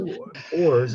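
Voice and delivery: "oars" in a West Country Wurzel accent. Real, not acted. Painter testing the word oars on an amused class, Wurzel accent. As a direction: try "oars" in broad Wurzel. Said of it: "doesn't quite work in a Wurzel accent".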